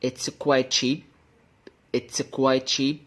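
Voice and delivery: QUITE as "kwai", running into CHEAP; one smooth CH between QUITE and CHEAP; linked. Shown as a demonstration. Teacher repeating a last time, QUITE CHEAP linked without the T. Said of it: "هقولهم لك أنا تاني آخر مرة".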